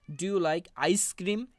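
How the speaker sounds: slow question with "ice cream" stressed. Shown as a demonstration. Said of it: "এই আইসক্রিমটা হচ্ছে stress word". ("ice cream" শব্দে জোর দিয়ে ধীরে প্রশ্ন)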